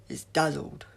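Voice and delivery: loud delighted cry; triumphant shout of discovery; excited cry. A narrator's reading. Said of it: "he cried".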